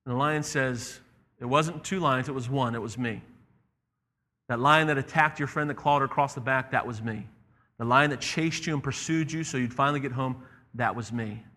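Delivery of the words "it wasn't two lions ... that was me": calm revelation. Acted. The lion reveals to the boy it was him, calm. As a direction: confess gently, dropping on each ending.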